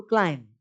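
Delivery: "क्लाइंब" said as climb, ending on M; silent B. Shown as a demonstration. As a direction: say "क्लाइंब" without sounding the final B. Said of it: "बी को नहीं बोलना है".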